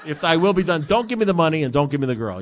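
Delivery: mock prayer, loud and laughing. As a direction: laugh through a pretend pious prayer.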